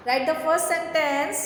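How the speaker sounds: slow, deliberate dictation. Shown as a demonstration. Teacher dictating first sentence slowly to kids. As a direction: dictate word by word.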